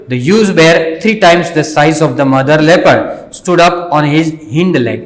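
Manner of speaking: slow, carefully paced reading aloud for learners; slow story reading. Shown as a demonstration. Teacher reading the story slowly to the students. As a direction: read each word out slowly and clearly.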